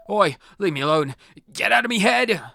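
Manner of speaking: high, loud panicked yell; loud protest. Acted. Possessed boy yells at the ghost, high and loud. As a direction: fight off the ghost in his head.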